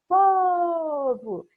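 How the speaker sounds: PO bem esticado e alto em "povo", como chamando; sílaba forte chamada. Shown as a demonstration. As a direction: chame "povo" alongando e reforçando o PO. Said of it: "vou chamar, não é". ("povo" chamado, com PO forte e longo)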